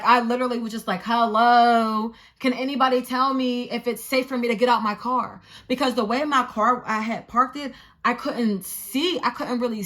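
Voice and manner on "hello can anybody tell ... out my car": raised, higher-pitched appeal; indignant call-out. Retold or imitated. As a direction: call to bystanders who are ignoring you. Acts calling bystanders for help.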